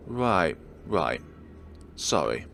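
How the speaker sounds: mildly sullen, low-pitched apology. A narrator's reading. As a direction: apologise grudgingly, letting the pitch sink. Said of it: "She sounds sullen".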